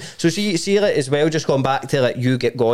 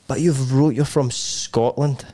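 imitating puzzled interviewer; 3 semitones lower, slower than usual.

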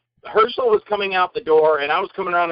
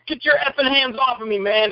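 higher-pitched retold protest; mock angry warning; 6 semitones higher than usual. Actor to man grabbing him, mock angry. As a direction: act out shaking off a grabber.

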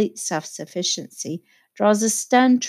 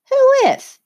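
brusque Tom; 7 dB louder than usual. A narrator's reading. Tom's brusque question.

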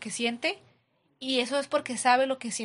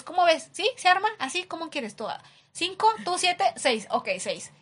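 playful haggling; 6 semitones higher than usual. Retold or imitated. Acting out a haggling negotiation.

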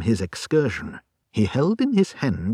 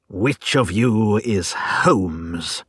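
menacing brute; 2 semitones lower, much slower than usual. Acted. Menacing intruder demands Holmes.

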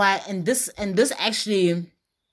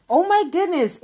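retold gush; 11 semitones higher, 4 dB louder than usual. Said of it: "So I said to him".

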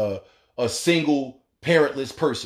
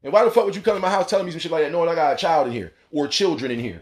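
mock angry scolding; 4 semitones higher, faster than usual. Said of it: "not saying".

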